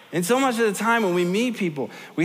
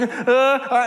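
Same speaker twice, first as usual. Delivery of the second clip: retold panicked gasps; 6 semitones higher, 4 dB louder than usual. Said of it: "and it's like".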